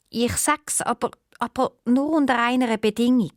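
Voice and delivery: a lonely owl princess complaining of her fate. Acted. Owl princess sets a condition.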